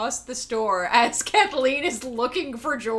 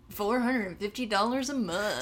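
quieter, relishing each word of "Four hundred and fifty dollars a month."; savoring the price; 5 dB quieter than usual. Retold or imitated. Mimicking George bragging about cheap rent, relishing it. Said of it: "He says it like".

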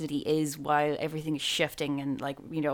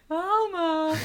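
dramatic call; 11 semitones higher than usual. Pretend. Mock dramatic calling out.

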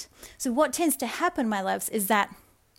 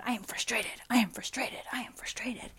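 frustrated mutter; 6 dB quieter than usual. Retold or imitated. Voicing a frustrated person's vibe.

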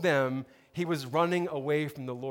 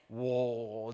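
low, drawn-out mock amazement; stunned whoa; 5 semitones lower, 5 dB quieter than usual. Sailors looking at each other after the storm stops, stunned. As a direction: let a lower whoa stretch out, dumbfounded.

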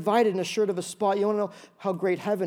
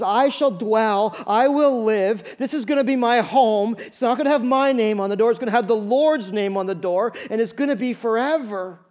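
joyful proclamation; 3 semitones higher, 5 dB louder than usual. Acted. Pastor voicing the believer's joyful claim from Psalm twenty-three. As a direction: proclaim it with triumph.

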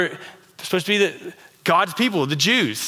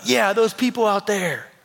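smug dismissive; 6 semitones higher than usual. Shown as a demonstration. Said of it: "my tone's not gonna be like this".

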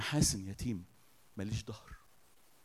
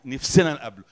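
voicing the crowd, pushed out louder; louder demanding quote; 10 dB louder than usual. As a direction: insist like an eager crowd. People's demand repeated.

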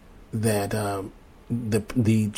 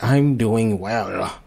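villain voice; much slower than usual. Retold or imitated. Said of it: "He's like".

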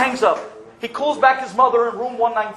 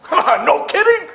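laughing; 10 semitones higher, 10 dB louder, much slower than usual. Real, not acted. Storyteller laughing at his own story, amused. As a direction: laugh out the words, higher and louder.

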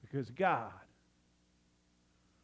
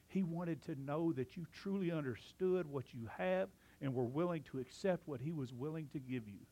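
softer, gentle, reassuring the flock; a quiet, sincere promise of love; tender reassurance; 6 dB quieter than usual. Real, not acted. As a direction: drop down and comfort them softly. Tender assurance after the loud line.

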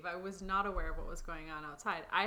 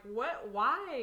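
puzzled, pitch rising into the question; mild retold surprise; 4 semitones higher, 4 dB louder than usual. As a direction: ask it baffled, lifting on WHY. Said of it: "it's kinda like".

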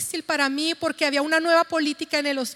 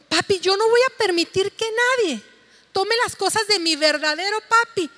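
put-on child scolding; 5 semitones higher, 4 dB louder than usual. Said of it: "Se enojó tanto".

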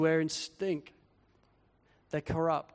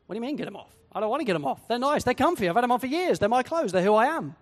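whiny protest; 4 semitones higher, 4 dB louder than usual. Acted. Person resisting, whining about clothes.

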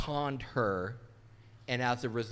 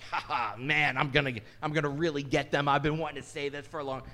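louder, a hint of a scheming preacher; mock gloating pastor; 5 dB louder than usual. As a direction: pretend you finally get to gloat. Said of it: "This series is not about me like".

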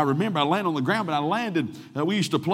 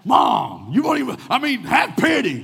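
put-on pleading kid; 8 semitones higher, 5 dB louder than usual. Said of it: "son pleads with mom".

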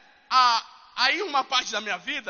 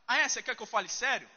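mock challenge; 2 semitones lower, 6 dB quieter, faster than usual. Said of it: "o que que ele faz".

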